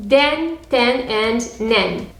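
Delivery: "den, ten, and nen" with open eh vowels; soft e sound. Shown as a demonstration. Teacher listing the soft endings, "den, ten, nen" with soft eh. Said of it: "the soft version with the e sound".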